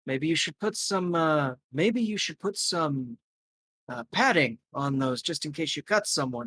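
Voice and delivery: a light, teasing voice for the gentleman; Chaim Fetterman joking. Acted. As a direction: tease about the strong grip. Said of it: "shakes your hand and goes".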